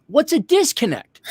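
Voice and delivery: high-pitched mock bewilderment; baffled question. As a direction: ask it like you have never heard the word. Retelling his baffled reply to electrician.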